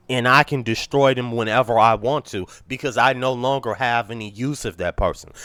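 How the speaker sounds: stuffy voice cracking from a cold; sick, congested, voice breaking. Real, not acted. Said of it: "my voice is starting to crack because I'm so congested".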